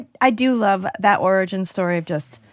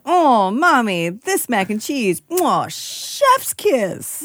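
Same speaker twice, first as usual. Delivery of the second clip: put-on child voice; 3 semitones higher, much slower than usual. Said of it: "And he is like".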